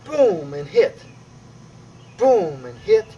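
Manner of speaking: loud boom, then hit; punchy demo count. Shown as a demonstration. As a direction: call out the strike like a coach. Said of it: "And we're gonna inhale".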